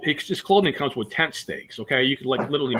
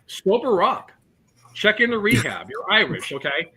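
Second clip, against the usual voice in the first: higher, exasperated barking at the phone; exasperated yell at Siri; 8 semitones higher than usual. Retold or imitated. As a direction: yell it at a useless voice assistant. Fed up yelling at his phone.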